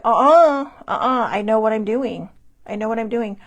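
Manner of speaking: loud, stubborn uh-uh brushing off help; a retold headstrong brush-off; defiant refusal. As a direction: insist you know best.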